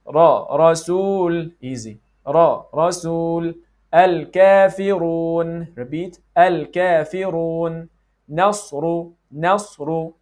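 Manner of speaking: slow, drawn-out 'Rasul' and 'Al-Kafirun', tapped R; model pronunciation. Shown as a demonstration. Teacher giving examples to repeat, slow careful articulation. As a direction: sound out 'Ra, Rasul, Nasru' slowly for repeating. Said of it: "let's work on some examples".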